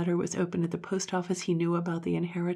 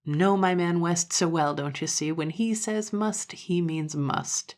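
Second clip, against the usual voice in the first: explaining dandy; slower than usual. Acted.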